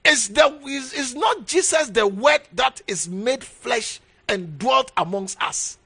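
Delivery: preaching shout. Acted. Preacher shouts the rhetorical question.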